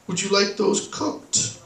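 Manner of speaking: slow, quiet question, lifting on "cooked"; slow repeat. Retold or imitated. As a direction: repeat it deliberately, drawing out COOKED. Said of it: "can you repeat what you said".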